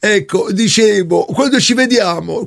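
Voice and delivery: fake woman's voice. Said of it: "la voce un po' bracuta".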